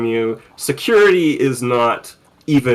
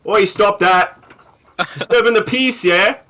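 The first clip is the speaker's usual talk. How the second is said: air marshal; 7 semitones higher than usual. Acted. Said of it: "two air marshals who are just like".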